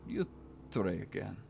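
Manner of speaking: measured narration in a fake Eastern European accent; mock Romanian storyteller, pausing between phrases; put-on Romanian accent. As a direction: read the story like a Romanian vampire. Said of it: "Romanian people do not sound like this".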